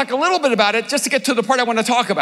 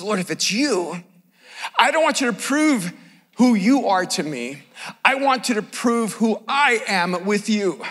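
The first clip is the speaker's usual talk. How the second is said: sincere Peter; 5 semitones lower, 3 dB quieter than usual. Retold or imitated. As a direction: pray it gently and sincerely. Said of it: "No, he says".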